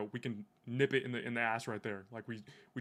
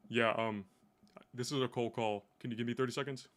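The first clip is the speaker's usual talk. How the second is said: monotone. Shown as a demonstration. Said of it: "just being completely monotone".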